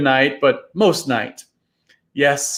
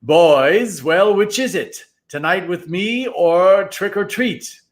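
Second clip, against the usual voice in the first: final shout; 4 semitones higher, slower than usual. Acted. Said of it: "a final shout from Moundstroud".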